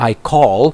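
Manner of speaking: "call" ending with the tongue touching up for L; L sound demonstration. Shown as a demonstration. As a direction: model the final L in "call". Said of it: "เสียง L นะ ก็แตะขึ้นข้างบน".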